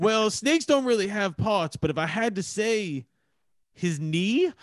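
drawn-out impersonation of a movie mother; slow mimicked answer, pausing before the punchline; Kathy Bates. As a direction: do a movie character, stretching the words. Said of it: "That was actually a good impersonation".

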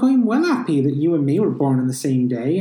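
a hint of a West Country accent, chirpy; lightly voiced Somerset girl. Host mocking a game character's accent, a hint of Somerset. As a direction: mimic the village girl's Somerset accent, lightly. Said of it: "she's like".

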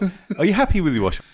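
high and fast through laughter; giggling the line out; laughing. Retold or imitated. Repeating the Izzard bit, laughing.

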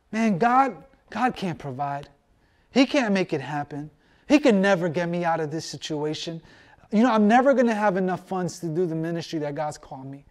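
a hint of a low, discouraged doubter; doubting believer. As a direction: mutter the fears of a worried believer. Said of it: "a scarcity mindset?".

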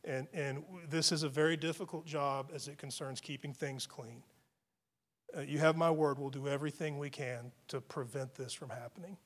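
soft, calm reassuring words; soft reassuring promise; gentle reassurance. Retold or imitated. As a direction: gently soothe the angry woman. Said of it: "I changed direction".

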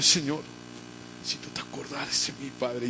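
softly acted tearful plea; imagined sobbing prayer. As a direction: plead quietly, as Ana in tears. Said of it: "me imagino a esa mujer sollozando". (súplica llorosa, levemente actuada)

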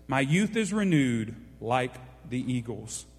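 slow, measured reading of a psalm; a preacher reading verses slowly to his church; scripture reading. Acted. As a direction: read it like holy scripture to the congregation. Pastor reads the psalm aloud.

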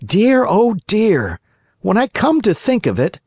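a fretful little marionette; jerky creaky wooden puppet. A narrator's reading. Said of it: "said the Marionette to himself".

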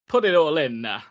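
a mock Italian accent, lightly put on; hammed-up Italian accent, half-hearted; terrible Italian accent. Mocking Italian filmmakers with a bad Italian accent. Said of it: "That's a terrible accent".

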